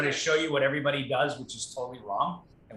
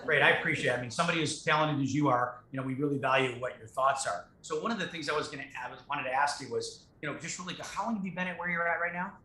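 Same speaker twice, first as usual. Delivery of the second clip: respectful flattering caller. Shown as a demonstration. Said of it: "let me show you".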